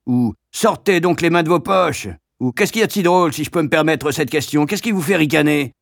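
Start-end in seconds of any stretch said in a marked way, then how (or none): 0.5-2.1 teacher's bark. Acted. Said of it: "vocifère". 2.5-5.7 sarcastic teacher. Acted. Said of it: "vocifère".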